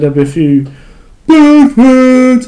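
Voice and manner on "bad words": high, loud American drawl on bad words; mock Deontay Wilder shouting; Wilder accent. Mocking Wilder's trash talk, loud American accent. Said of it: "my best Wilder accent".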